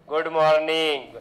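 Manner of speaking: teasing a gushing good-morning message; mock heartfelt good morning. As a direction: stretch good morning like a syrupy group-chat wish. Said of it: "ऐसा बिल्कुल दिल से good morning wish करते हो".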